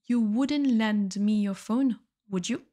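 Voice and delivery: slowly, each word laid out clearly; careful slow classroom model; slow repeat for learners. Shown as a demonstration. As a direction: say it again slowly so students can follow. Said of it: "teacher repeats example slowly".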